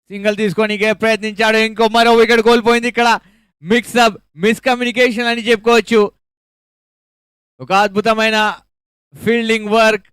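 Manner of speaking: high, loud wicket call; excited cricket commentary. Real, not acted. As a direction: burst out at the run out. Run out wicket falls.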